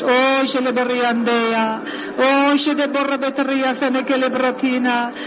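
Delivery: rhythmic prayer in tongues; speaking in tongues. Acted. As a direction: pour out flowing tongues prayer. (nyelveken imádkozás)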